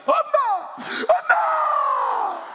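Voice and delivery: very high, drawn-out wailing cry of 엄마; daughter wailing. Retold or imitated. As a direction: wail for mother like a grieving daughter. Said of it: "딸은 이렇게 웁니다".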